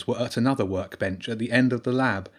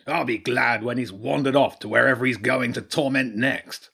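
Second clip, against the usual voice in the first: king badger voice.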